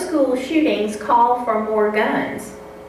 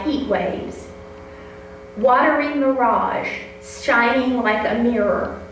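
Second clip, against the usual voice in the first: measured, unhurried poetry reading; poem reading. Acted. Reads her poem aloud.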